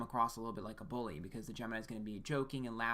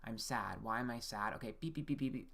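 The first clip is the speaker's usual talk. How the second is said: robot voice. Retold or imitated. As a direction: talk like a beeping robot. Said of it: "So it's almost computerized where it's like".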